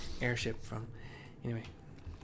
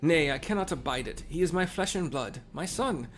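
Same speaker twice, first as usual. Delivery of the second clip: lightly voiced old father; a hint of an elderly man; old people voice. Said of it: "Doing the old people voice".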